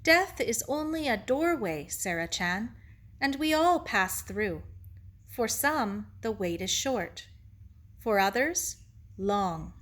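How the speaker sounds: lightly voiced Japanese-accented sage; gentle teacher Ito. Ito explains heaven to Sarah, gently thoughtful. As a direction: explain patiently in short, separated phrases.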